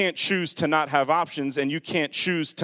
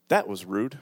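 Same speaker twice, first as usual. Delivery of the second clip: put-on little old lady voice; 5 semitones lower than usual. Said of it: "the voice of a little old lady".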